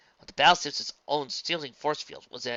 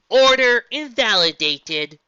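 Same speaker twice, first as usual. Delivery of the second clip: slow, loud mechanical reply; unmoved machine; calm robot voice; 11 semitones higher, 16 dB louder, slower than usual. Acted. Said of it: "the road beast's calm reply".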